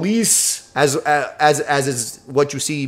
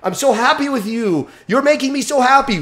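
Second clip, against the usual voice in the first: excited praise to dog; 8 semitones higher than usual. Shown as a demonstration. Trainer praising his dog, high and gushing. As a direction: pour delight onto the dog. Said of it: "I train with my dog".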